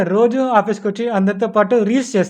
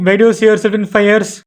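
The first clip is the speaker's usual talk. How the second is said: mocking echo; 3 semitones higher, 3 dB louder, much slower than usual. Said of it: "పోనీ మీరు చెప్పండి".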